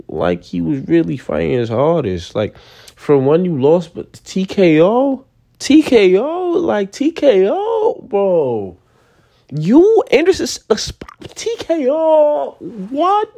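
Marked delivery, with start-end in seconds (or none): 3.0-13.4 high, squeaky incredulous repeats of "T K O"; can't believe the result, voice cracking up high; stunned disbelief. Real, not acted. Reacting to Silva losing by TKO, high stunned disbelief.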